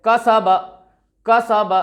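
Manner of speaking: कसब crisp and short; quick three-beat कसब; short vowels, read quickly. Shown as a demonstration. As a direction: recite कसब briskly, no vowel held. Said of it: "कैसे पढ़ेंगे?".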